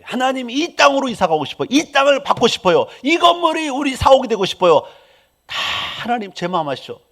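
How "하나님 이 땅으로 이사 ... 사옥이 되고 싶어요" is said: earnest pleading prayer. Shown as a demonstration. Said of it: "이렇게 기도하는 거지".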